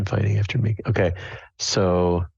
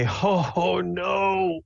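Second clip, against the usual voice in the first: overacted death cry; 10 semitones higher, much slower than usual. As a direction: wail it like a dying hero. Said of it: "I say".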